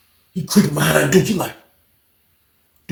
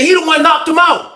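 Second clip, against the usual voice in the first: high-pitched imitation of the booth lady; retold accusing witness; 9 semitones higher than usual. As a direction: point someone out in a raised mock voice.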